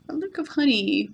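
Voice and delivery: a bear's soft wistful murmur about honey; murmured to himself. Acted. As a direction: murmur it under your breath, longing. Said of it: "murmured Bear to himself".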